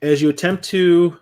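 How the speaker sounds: ordinary talk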